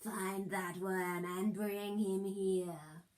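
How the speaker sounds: slow, scheming villain mutter; a hint of a sinister wizard giving orders. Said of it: "He mutters in his servant's ear".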